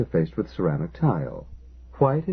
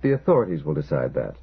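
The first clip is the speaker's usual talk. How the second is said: lower, curt brush-off; gruff; 4 semitones lower than usual. Acted. Engineer dismissing the worried neighbour, gruff and lower. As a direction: cut him off gruffly, dropping the pitch. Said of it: "Kalichenko said gruffly".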